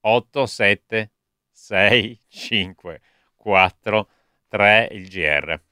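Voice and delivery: countdown. Shown as a demonstration. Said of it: "il conto alla rovescia".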